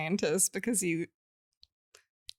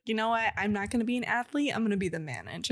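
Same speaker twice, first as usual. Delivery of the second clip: lightly imitated would-be manager, quick delivery; a hint of impersonation, rattled off fast; John DuPont; faster than usual. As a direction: briskly mimic a man settling for manager. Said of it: "You kinda sounded like him".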